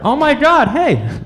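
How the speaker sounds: high, squealing horse whinny; excited horse. Pretend. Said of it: "That's my impression of an excited horse".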